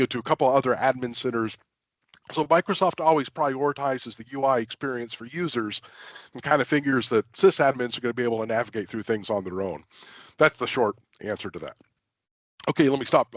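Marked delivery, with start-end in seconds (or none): 2.3-13.3 slight throat catch, frog in throat. Real, not acted. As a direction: speak through a frog in the throat. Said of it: "a frog in my throat".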